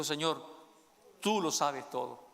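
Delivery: a touch of sorrow, slow and low; humbled, say it heavily; sad Peter. Acted. Saddened Peter answers Jesus the third time, softly sorrowful. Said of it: "que se puso muy triste".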